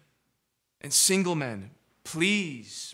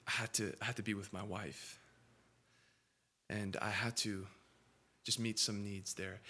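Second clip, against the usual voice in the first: quiet sincere conviction; 6 semitones lower, 11 dB quieter than usual. Retold or imitated. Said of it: "the way he said it".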